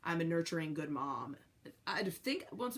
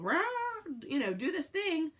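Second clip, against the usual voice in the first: mild mock yell; 10 semitones higher than usual. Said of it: "yelling at some animal".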